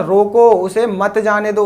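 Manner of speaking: slow, drawn-out रोको, then उसे मत जाने दो as one phrase; break after रोको. Shown as a demonstration. Teacher explaining the first meaning, रोको set apart. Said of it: "उसने बोला है कि".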